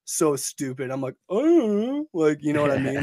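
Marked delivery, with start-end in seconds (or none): 1.3-2.1 high mock "oh". Acts out his sheepish reaction.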